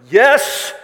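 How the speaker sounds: high, loud, stretched mock-panic shout; panicked yell. Rattled visitors answering their unfazed friend, panicked yell. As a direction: yell it as if scared silly. Panicked reply during retold earthquake.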